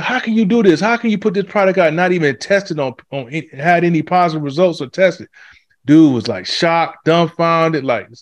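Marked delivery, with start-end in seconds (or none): 0.0-5.3 much higher, accusing question; grilling reporter. Retold or imitated. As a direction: corner him with a raised, pressing voice. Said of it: "they was like".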